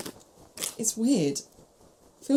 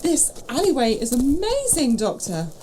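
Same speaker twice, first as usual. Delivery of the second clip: awed delight. Acted. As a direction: gasp at the alley like a wide-eyed tourist. Companion wowed by the alley.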